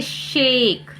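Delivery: शेक with a stretched "ay"; long A sound. Shown as a demonstration. Teacher adding an example, शेक with long "ay". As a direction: draw out the vowel in शेक. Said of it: "इसे ए ही पढ़ेंगे".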